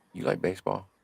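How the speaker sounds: put-on very soft voice. Retelling a big inmate speaking to a new prisoner: imitating a very soft voice. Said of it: "in the most softest voice I ever heard".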